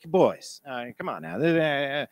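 a hint of a calm, responsible father; fatherly figure. Principal to two boys in his office, lightly fatherly. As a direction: gently settle the boys like a dad. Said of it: "like a responsible fatherly figure".

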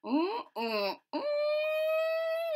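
squeaky high ooh; excited ooh. Acted. Lewis thinking of a plan, squeaky ooh. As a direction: squeal with a sudden idea.

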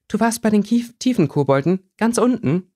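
high, astonished disbelief; amazed. Acted. Girl learns where her friend went, high amazed disbelief. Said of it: "staunte Winona".

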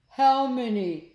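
loud, high, drawn-out question; storybook shout of alarm. Acted. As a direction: blurt it out in disbelief. Slime asks in alarm.

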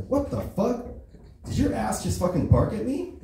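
high, indignant dog; be the startled little dog; squeaky outraged pet; confused dog voice. Acted.

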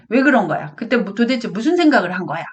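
mildly acted cross mother; intimidating questioning. Mother demands child explain yesterday, mildly stern questioning. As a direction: press for an explanation, a touch sternly. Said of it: "이렇게 이야기를 하면 아이가 주눅 든단".

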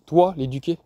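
a touch of scornful disbelief; mildly doubt he could ever teach anyone; incredulous. Acted. Grandmother doubting the father can teach the boy, mild disbelief. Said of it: "La voix d'Anna était chargée d'incrédulité".

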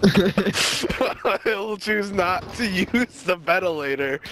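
very slow, each word set apart; slow, deliberate retake. Real, not acted. Correcting himself after the laughter, very slow and deliberate. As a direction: spell it out slowly this time.

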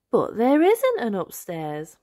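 a lightly voiced confused piglet; slow, puzzled child line; Peppa voice. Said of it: "says Peppa".

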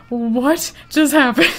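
slow, loud, laughing what-just-happened; laughing disbelief. Retold or imitated. Retelling the chocolate mess to viewers, loud laughing disbelief. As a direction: laugh through the shock. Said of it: "And I'm like".

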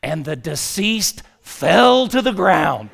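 loud, high, very drawn-out Southern punchline; Southern storyteller. Retold or imitated. Funeral director delivers the casket mishap's climax, grand Southern drawl. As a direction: stretch it out grandly in a Southern accent. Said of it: "listen to this description".

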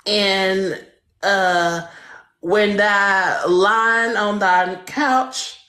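mock Bible recitation. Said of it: "first line of the fifth page of the Bible say".

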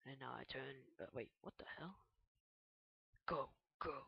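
ordinary talk, nothing marked

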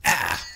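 sudden "ah" on taking a hit; clipped-off cry of defeat; short pained cry. Real, not acted. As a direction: yelp out a short "ah". Dying in the game.

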